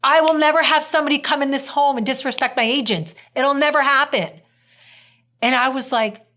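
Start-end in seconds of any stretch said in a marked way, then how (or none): 0.0-4.3 higher pitched retold protective fury; mama bear protective. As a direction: defend your agent like a mama bear. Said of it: "Oh, she was mama bear".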